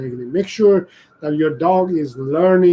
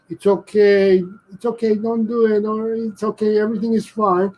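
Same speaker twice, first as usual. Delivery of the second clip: mock soothing owner; 6 semitones higher than usual. Owner soothes dog doing wrong.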